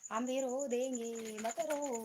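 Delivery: slow, drawn-out mock pleading; playful consoling. Streamer consoling tearful viewers, threatening to cry too, playful drawn-out pleading. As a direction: stretch the words out as if coaxing a crier.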